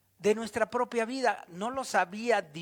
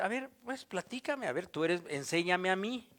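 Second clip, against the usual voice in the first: gentle invitation; 4 dB quieter than usual. Acted. Jesus gently inviting you.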